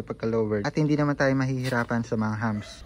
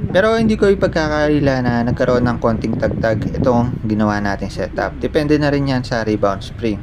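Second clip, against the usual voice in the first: on a bumpy road; 5 dB louder than usual. Real, not acted. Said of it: "dinala na talaga natin siya sa lubak na kalsada".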